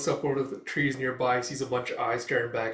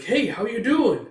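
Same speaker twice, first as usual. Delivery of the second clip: high, loud, drawn-out greeting; chirpy sidekick; 10 semitones higher, 7 dB louder, slower than usual. Retold or imitated. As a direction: greet him like a perky little creature. Chirpy sidekick greets wounded man.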